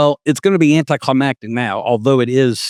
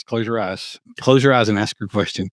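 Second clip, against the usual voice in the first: mock sultry AI voice; 3 semitones lower than usual. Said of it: "No, it'd be this".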